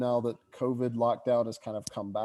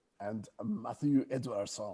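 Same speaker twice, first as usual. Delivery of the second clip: put-on French-accented delivery; 5 dB quieter than usual. While introducing characters, the speaker slips into a French accent. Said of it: "Why am I French tonight?".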